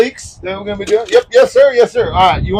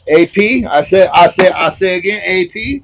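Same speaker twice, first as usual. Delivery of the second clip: Foghorn Leghorn. Pretend. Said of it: "being Foghorn Leghorn there".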